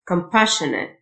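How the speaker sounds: Compassionate with "shun" in the middle; SSIO as SH. Shown as a demonstration. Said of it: "ال اس اس اي او تنطق شه".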